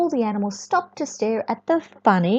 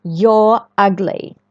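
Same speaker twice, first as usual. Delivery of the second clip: loud, slow sneer; mean goose; 3 semitones lower, 6 dB louder, slower than usual. Acted. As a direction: spit the insult slowly. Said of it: "goose is being very mean".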